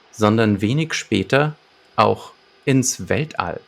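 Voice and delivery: measured synopsis read-out with deliberate pauses; story narration. A narrator's reading. Podcast host presents the detective's case to listeners, narrating. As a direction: read the case summary like an audio-drama narrator. Reads the episode synopsis aloud.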